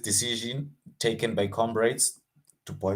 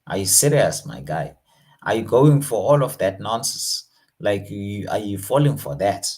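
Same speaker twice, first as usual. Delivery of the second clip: disbelief; 2 semitones lower, 4 dB louder than usual. Shown as a demonstration. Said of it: "having disbelief".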